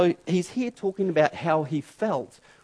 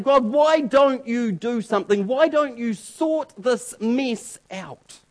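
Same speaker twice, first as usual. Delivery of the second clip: crying out; 3 semitones higher, slower than usual. Retold or imitated. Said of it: "crying out and saying".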